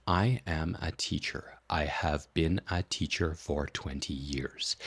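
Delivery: words still clipped apart. Shown as a demonstration. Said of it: "And speed it up again".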